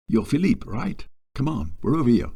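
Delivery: put-on friendly colleague, lightly French-accented. Colleague greeting Philip at the mess, light French accent. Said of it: "in a strong French accent said".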